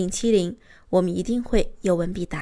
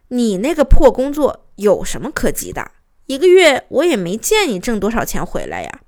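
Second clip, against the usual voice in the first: acted scornful wife's retort, a bit louder; retold annoyance; 4 dB louder than usual. Wife retorting to her reluctant husband, mildly acted annoyance. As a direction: imitate an irritated wife belittling his job. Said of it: "就来气了".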